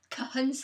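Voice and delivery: Kahunsa, said the way white people mangle it; mock the mangled Kahunsa; mispronounced name. Friend mocking how white people say her name, clumsy. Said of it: "White people will be like".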